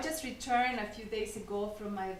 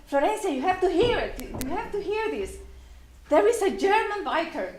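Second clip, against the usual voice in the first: fast, higher, eager retelling of the husband; excited urging; 4 semitones higher, faster than usual. Retold or imitated. Husband at the car window urging his wife, fast and excited. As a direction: rush it out like he can't wait to share.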